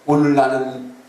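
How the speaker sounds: voice of God. Retold or imitated. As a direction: pronounce it as God, deliberately. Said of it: "그랬더니 하나님이 그랬어요".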